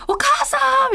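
high call for mom. Retold or imitated. Dreaming, she calls out to her mother for help.

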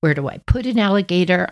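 fast, lightly voiced panic; mock panicked brother. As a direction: play the worried teenage brother. Brother panicking in retold story.

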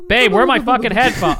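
loud frustrated yell; shouting. Acted. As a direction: yell it across the workshop. Santa yells for headphones.

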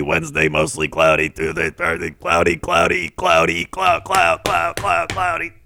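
stuck looping robot voice; glitching robot voice. Acted. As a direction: stutter like a broken robot. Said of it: "It overloaded him".

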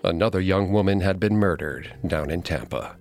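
measured, ominous story narration; true crime narrator. A narrator's reading. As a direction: tell it like a true crime documentary. Co-host continues dramatic narration.

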